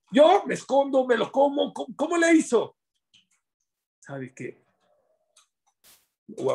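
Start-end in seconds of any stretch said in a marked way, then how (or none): 0.1-2.8 much higher, playful imitation of a greedy kid; lightly voiced greedy child, hiding and eating; mock sneaky child voice. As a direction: squeak it like a child hiding a treat. Man voices what a child would do.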